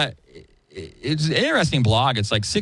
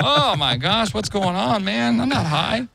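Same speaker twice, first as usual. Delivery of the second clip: high panicky mock voice, much higher in pitch; whacked out; 11 semitones higher, slower than usual. Retelling Stephen Baldwin freaking out, high panicky voice. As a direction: babble like a freaked-out ex-user. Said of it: "all whacked out going".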